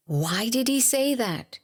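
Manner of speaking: acted-out wounded protest; hurt thought. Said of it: "your mind is hurt".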